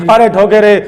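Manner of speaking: wife fakes cries while husband beats the bed; mock screaming. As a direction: wail as if being beaten. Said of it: "जोर जोर से चिल्लाने लगी".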